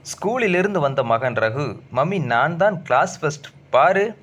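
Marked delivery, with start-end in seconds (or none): 1.9-4.2 put-on higher, eager boasting boy; a kid running in proud of his rank; excited child. A narrator's reading. Son Raghu tells mummy his first rank, excited. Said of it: "ஓடி வந்து".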